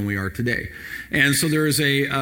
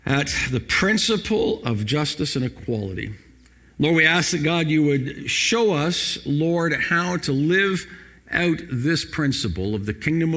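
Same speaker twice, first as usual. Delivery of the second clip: earnest pastor's prayer, slowing on key words. Acted. Pastor opening the sermon with prayer, earnest and measured. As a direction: pray it over the church, unhurried.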